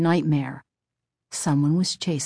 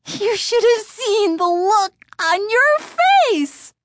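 snickering tease; 5 dB louder than usual. A narrator's reading. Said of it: "Lindy snickered".

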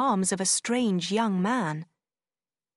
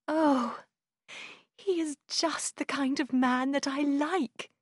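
high, eager and delighted; happy cry; 6 semitones higher than usual. A narrator's reading. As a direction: gush with joy about him. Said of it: "Marianne cried, her eyes shining with happiness".

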